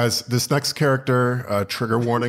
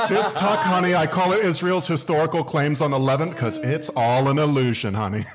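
a drag queen persona; 4 semitones higher than usual. Acted. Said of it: "it's called Foreign Policy Trixie Mattel".

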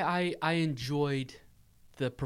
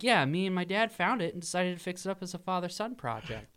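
put-on chipper kid voice; 6 semitones higher, faster than usual. Dennis's reply, retold.

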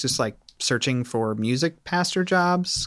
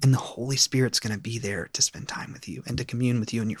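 put-on gentle, sincere preacher to teens; youth pastor voice. Shown as a demonstration. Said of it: "I'm gonna use my youth pastor voice for it".

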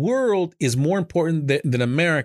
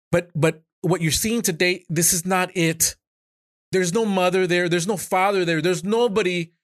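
higher-pitched, impassioned protest; upset, pressing each point home; worked-up, pleading indignation; emotional; 4 semitones higher than usual. Real, not acted. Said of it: "I'm emotional".

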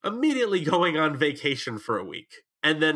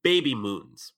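blocked nose, muffled consonants; stuffy nose; 3 semitones lower, much slower than usual. Real, not acted. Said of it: "I'm sorry, I'm sick".

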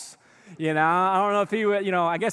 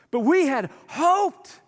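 mournful; 7 semitones higher, slower than usual. Retold or imitated. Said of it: "listen to their heart".

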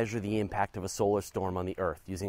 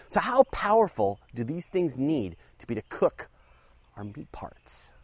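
ominous whisper; 3 semitones higher than usual. Pretend.

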